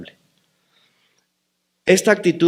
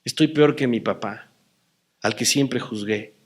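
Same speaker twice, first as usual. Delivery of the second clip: anguished prayer; 6 semitones higher than usual. Retold or imitated. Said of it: "Y dije".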